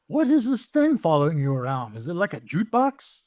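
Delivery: lightly voiced French guy, puzzled. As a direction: ask with a hint of a French character, rising at the end. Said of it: "he's like".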